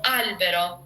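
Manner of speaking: patient teacher modelling albero; teacher's model albero. Shown as a demonstration. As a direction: show how albero ends on a plain O. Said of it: "I can repeat one ten times".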